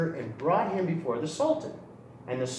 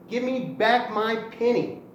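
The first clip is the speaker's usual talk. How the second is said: demanding cry; 4 semitones higher than usual. Acted. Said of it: "once again he cried".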